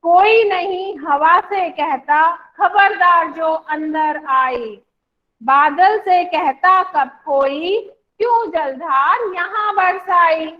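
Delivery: slow, sing-song poem reading; teacher leading a class poem reading; poem recitation. Shown as a demonstration. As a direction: recite slowly so the class can follow. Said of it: "बोलना है साथ में".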